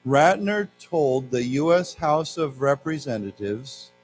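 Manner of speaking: slow, careful class reading; slow model reading. Shown as a demonstration. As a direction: read slowly for students to repeat. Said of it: "let's say it again".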